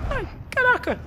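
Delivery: squeaky high panicked cry; very high pitch. Real, not acted.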